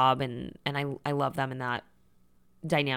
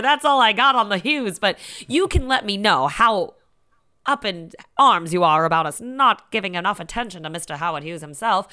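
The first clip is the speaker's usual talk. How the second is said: 1930s broadcasting voice; 4 semitones higher, 5 dB louder than usual. Pretend. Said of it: "I just decided to go into, like, a nineteen thirties broadcasting voice".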